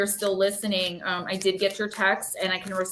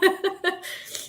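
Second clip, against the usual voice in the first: high, breathy laugh through tears; embarrassed laugh while choked up; teary laugh; 11 semitones higher than usual. Real, not acted. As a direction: release the emotion in a laugh. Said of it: "very emotional".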